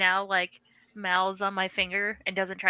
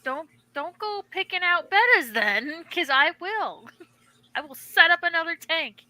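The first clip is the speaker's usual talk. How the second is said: laughing warning; 8 semitones higher than usual. Retold or imitated. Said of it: "I was like".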